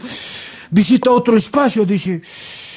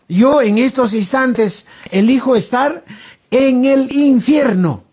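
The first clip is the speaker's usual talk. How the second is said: higher, orator's voice slowing at the end; pompous declaration; 4 semitones higher than usual. Acted. Alan tells San Pedro he chooses hell, pompously. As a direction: proclaim the decision solemnly, mock-grand.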